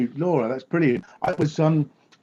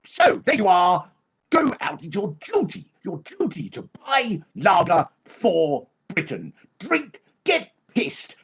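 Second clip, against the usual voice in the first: Boris Johnson impression; 2 semitones lower than usual. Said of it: "Johnson was going".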